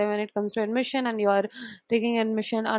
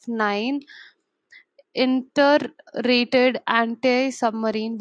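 slow dictation; slower than usual. Shown as a demonstration. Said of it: "I will read it again".

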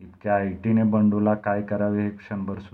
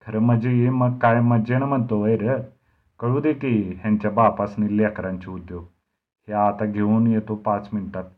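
louder angry growl, biting each phrase; 5 dB louder than usual. Acted. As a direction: snarl it at the doubting Narayan. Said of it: "रागारागाने गुरगुरला". (रागाने गुरगुरत)

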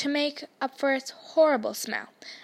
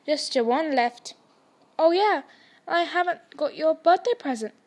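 louder hearty giant voice; Hagrid; 3 semitones higher, 6 dB louder than usual. Acted. Hagrid remembering Harry's birthday present, louder hearty voice. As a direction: blurt it out like a big kindly giant.

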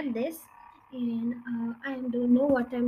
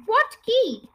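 higher, louder puzzled shout; 8 semitones higher, 8 dB louder than usual. Acted. Roly-poly bird on the roof shouting down, puzzled shout. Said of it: "shouted the roly-poly bird".

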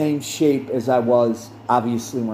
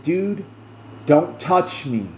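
a touch of edge, slower, on "touch"; second warning with a little more bite; slightly sharper; slower than usual. Retold or imitated. Warning the boyfriend again, slightly sharper. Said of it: "in a slightly sharper voice".

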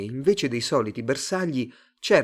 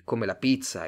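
ordinary delivery

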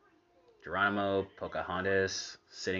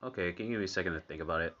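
quick retort; 4 dB quieter, much faster than usual. Retold or imitated. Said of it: "I was just like".

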